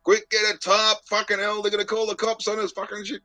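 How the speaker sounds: high-pitched, alarmed yelp of a quote; mock panic. He retells the man seeing how big it is, mock panicked. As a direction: imitate someone freaking out in a high voice.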